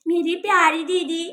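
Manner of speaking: lightly acted weepy affection; tearful gratitude. Child thanking her big sister, tearful gratitude. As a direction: say it as if tearing up. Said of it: "रोना बंद करो".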